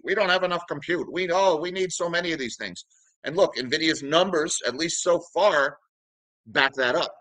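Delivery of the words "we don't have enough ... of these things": mock desperate. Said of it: "how desperate the market is for more compute".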